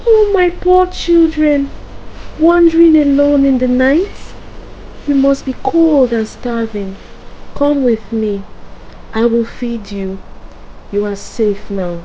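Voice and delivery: put-on high, loud old woman fussing over poor children; luring old witch feigning sweet concern; coaxing old woman. A narrator's reading. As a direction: start high and loud, then ease down into reassurance.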